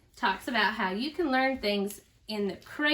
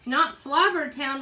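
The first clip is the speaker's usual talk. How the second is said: slow, louder, higher protest; shouted; 3 semitones higher, 5 dB louder than usual. Acted. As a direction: shout the name in horror, drawn out. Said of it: "we shouted".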